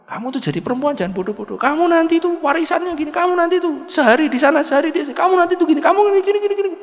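high, loud, fast wheedling busybody; scheming busybody. Acted. Busybody goading the wife to stop her husband remarrying, high and fast. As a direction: egg the wife on, rattling it off. Meddling woman persuades the wife.

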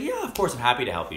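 high, loud, eager shop assistant impression; very excited. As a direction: imitate an assistant thrilled to help. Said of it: "she's, like, very excited".

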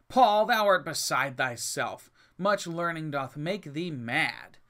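slow, loud rebuke from Festus. Acted. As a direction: call it out slowly, loud and scornful. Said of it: "Festus said with a loud voice".

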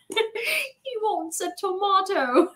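high, very slow call; exasperated mock yell. Customer translating for the sandwich man, exasperated mock yell. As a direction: stretch it out high without real volume. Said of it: "I, like, yelled it out".

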